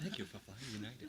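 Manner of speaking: cheery airline announcement voice; like a cabin crew greeting; flight attendant. Pretend. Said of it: "That sounded like a flight attendant or something".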